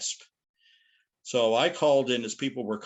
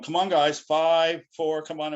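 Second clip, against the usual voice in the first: higher and louder, hurried; urgent countdown; 6 semitones higher, 6 dB louder, slower than usual. Retold or imitated. Floor director rushing laughing guests back on air, urgent. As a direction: push the hosts back on air before the count ends. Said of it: "the floor directors would be going".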